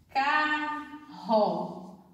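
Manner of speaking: carro said clearly, with the double r as one sound; teacher demonstrating the digraph in carro; careful demo. Shown as a demonstration. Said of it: "o R, R R, tem o som de um R só".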